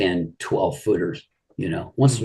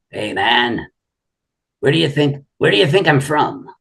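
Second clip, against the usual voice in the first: pitched up, teasing South African drawl; imitating Ron's drawl; 7 semitones higher than usual. Ron quizzing Jim on the phone, mock drawl. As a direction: mimic a friend's proud drawl, higher than your own. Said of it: "you know that drawl he had".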